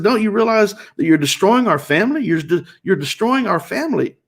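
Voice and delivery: acting out an aggrieved appeal; exasperated pleading. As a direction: plead for the family, pitch lifted. Retold pleading confrontation with wife.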